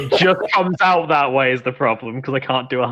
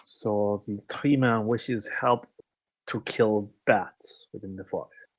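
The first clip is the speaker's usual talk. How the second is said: put-on slow, measured character voice with a faintly French accent; measured, accented in-character speech; accented game character; 3 semitones lower, 9 dB quieter, slower than usual. Player reporting the tree man's wish, measured accented character voice.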